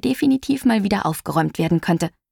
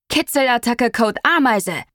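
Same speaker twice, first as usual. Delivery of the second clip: stretched-out, higher-pitched play command; mock battle cry; 4 semitones higher than usual. A narrator's reading. Papa calls the tickle attack to the girls, mock battle cry. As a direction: call out the secret attack code, slowly. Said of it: "schrie er Juno und mir zu".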